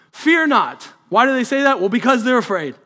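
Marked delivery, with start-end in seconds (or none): 0.1-0.9 fear not called higher and louder, fear stressed; angel's louder command. Acted. Angel to frightened shepherds, a louder higher fear not. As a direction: lift the repeat into a ringing cry.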